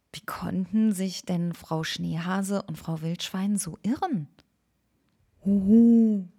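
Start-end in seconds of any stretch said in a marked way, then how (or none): 5.4-6.3 high, loud hooting owl call; loud owl hoot from behind. Acted. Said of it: "raunte es plötzlich".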